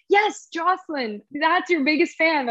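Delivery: imitating a thrilled fan's recognition; excited fan. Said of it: "she's getting so excited".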